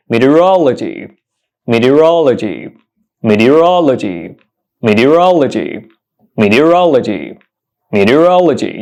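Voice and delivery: careful, separate model of "meteorology"; "meteorology" repeated evenly, each one falling after the stressed "rol"; correct pronunciation demo. Shown as a demonstration. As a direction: say "meteorology" clearly as mee-tee-uh-ROL-uh-jee, stressed on "rol". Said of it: "The correct pronunciation of this word is".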